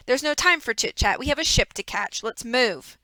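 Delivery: a hint of a smug, fake-sorry villain; lightly voiced villain. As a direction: play the false grief of a schemer. Reader voices villain Stefano.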